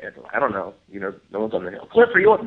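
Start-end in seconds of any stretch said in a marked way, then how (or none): 1.9-2.4 high, loud call to a teammate; imitating a call. The speaker calling out to Cliff in the dark, high loud call. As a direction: call out to check who's up there.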